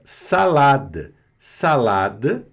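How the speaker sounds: salada slow with pure open A's; salada, each A clean and open. Shown as a demonstration. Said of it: "pronúncia bem limpa do A". (salada com A limpo e puro)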